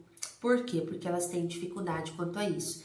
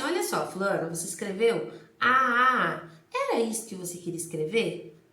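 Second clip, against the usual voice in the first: teacher to pupil. Shown as a demonstration. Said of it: "Você fala assim".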